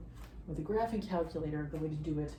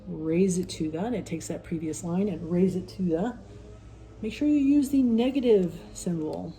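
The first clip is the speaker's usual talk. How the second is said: louder, pushing over the noise; yelling over leaf blower; 5 dB louder than usual. Real, not acted. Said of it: "Really apologize about the leaf blower".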